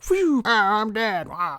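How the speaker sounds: high, put-on wail; mock death cry. Bad guys struck by arrows, high comic dying cry. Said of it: "shoot arrows at 'em".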